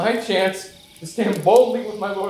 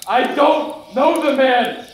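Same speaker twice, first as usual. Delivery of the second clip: I don't know the man shouted high and slow; a cornered man yelling at his accusers, higher and louder; panicked shout; 8 semitones higher, 5 dB louder, slower than usual. Acted. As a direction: cry the denial out in terror. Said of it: "I lost it. I panicked. I was scared".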